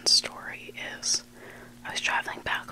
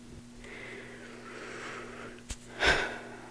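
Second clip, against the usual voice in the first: sigh; 4 dB quieter than usual. Real, not acted. Sigh between two stories.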